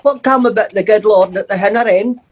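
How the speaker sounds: lightly voiced Doric assistant; a hint of an Aberdeenshire lilt; Doric question. Retelling the assistant's question to the kids, light Doric lilt. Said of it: "She said".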